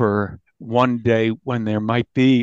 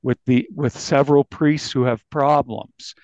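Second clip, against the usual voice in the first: woeful lament; 3 semitones higher than usual. Retold or imitated. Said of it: "gives them one of these".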